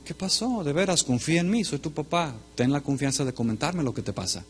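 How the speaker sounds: soft, reassuring dad voice; father softly urging his son to confide; gentle coaxing. Retold or imitated. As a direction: win his trust softly.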